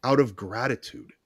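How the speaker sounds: slow and soft, drifting into a whisper at the end; hushed awe. Retold or imitated. Hypnotist marveling at client's grateful call, slow hushed whisper. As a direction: let the wonder hush you down. Awed retelling of client's thanks.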